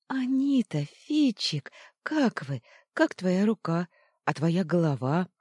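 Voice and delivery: put-on high, eager girl's voice bursting out; a delighted girl hugging her friends; joyful greeting. Луна радостно окликает друзей, высоко и взволнованно.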